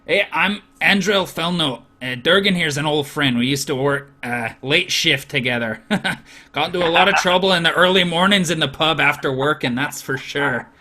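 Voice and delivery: lightly voiced jovial dwarf; old friend introducing himself to the party; hearty old friend. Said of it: "he says".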